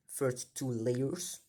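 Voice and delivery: slow, French-accented English; English term in a halting French accent; poor English pronunciation. Real, not acted. Cube teacher naming a method for learners, poor French-accented English. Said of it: "Pardon si ma prononciation est vraiment très mal".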